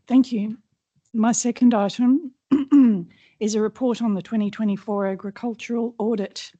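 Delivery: hoarse, strained, losing voice; a voice that is giving out. Real, not acted. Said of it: "Sorry, I'm losing my voice".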